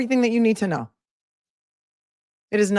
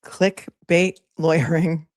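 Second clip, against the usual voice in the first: slow savoring; slower than usual. Real, not acted. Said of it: "I've never heard that phrase before".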